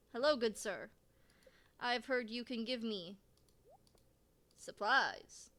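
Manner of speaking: a lightly put-on polite villager voice; mild hammed-up courtly greeting. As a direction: greet the shopkeeper in a mock-formal way. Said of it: "What is that voice?".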